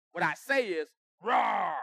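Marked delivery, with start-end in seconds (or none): 1.2-1.8 mock Hulk "Roar" at speaker's own pitch. Preacher showing how we explode, light mock roar. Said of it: "like the Hulk".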